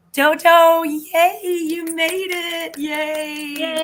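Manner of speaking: gasp, then a high, loud yay; thrilled a friend showed up; excited squeal. Real, not acted. Greeting a late viewer.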